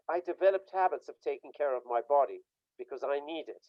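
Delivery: normal talking voice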